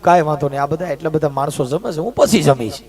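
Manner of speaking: low, soft humble reply; meek bhagat. Retold or imitated. Humble bhagat answering the guru, low and soft.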